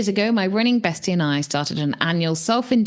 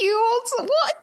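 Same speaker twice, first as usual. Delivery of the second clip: mock scolding dog. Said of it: "I was like".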